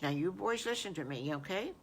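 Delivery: gentle firm mother. Acted. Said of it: "she took their little chins".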